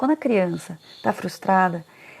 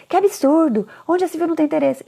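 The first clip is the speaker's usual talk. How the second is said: higher, scandalised parent quote; a mock outraged parent, voice pitched up; mock indignation; 8 semitones higher, 4 dB louder than usual. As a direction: play the shocked parent who can't believe it. Parent indignant at uninterested child.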